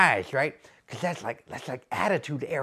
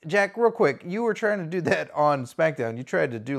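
ordinary delivery

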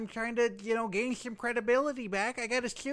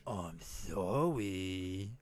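very low, slow, seductive sorry; a sexy, drawn-out apology; sultry sorry; 6 dB quieter, much slower than usual. Pretend. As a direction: purr the apology like a come-on. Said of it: "That's too sexual".

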